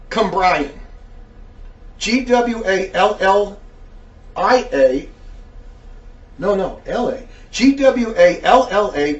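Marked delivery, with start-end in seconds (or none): 2.0-9.1 slow letter-by-letter spelling. Real, not acted. Host spelling a name from an email, slow and deliberate. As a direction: spell it slowly, one letter at a time.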